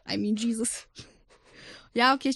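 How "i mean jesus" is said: whispered aside. Real, not acted. Whispered aside after a joke.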